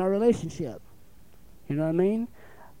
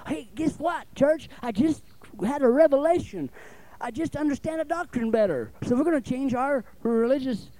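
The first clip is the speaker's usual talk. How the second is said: mock announcement; 4 semitones higher than usual. Mocking a preacher's flimsy revelation.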